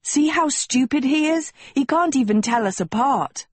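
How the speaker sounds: high, indignant yell without much volume; exasperated yell. A narrator's reading. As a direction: yell it in outrage, pitched high. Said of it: "Agatha yelled".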